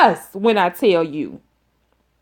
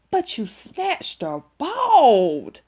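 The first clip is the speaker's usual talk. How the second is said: laughing disbelief; 4 semitones higher, 3 dB quieter, slower than usual. Real, not acted. Teller telling Tamika she snatched her bald, laughing. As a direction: chuckle it out slowly.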